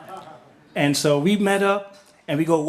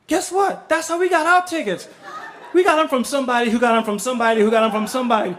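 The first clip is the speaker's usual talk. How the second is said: high cheery gossip; 5 semitones higher, faster than usual. Retold or imitated. Couple admits same ticket chain.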